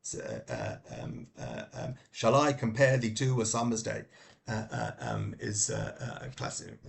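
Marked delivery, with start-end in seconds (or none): 2.1-4.1 quoted verse with every second syllable stressed in "Shall I compare thee"; iambic stress. Shown as a demonstration. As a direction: recite it in iambic beat, stressing "I", "pare", "to", "sum", "day". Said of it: "each line is in iambic, uh, pentameter".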